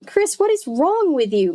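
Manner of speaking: a mother scolding her daughter, pitched high; demanding mother. A narrator's reading. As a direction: confront her daughter sharply. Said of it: "Missus Powell demanded".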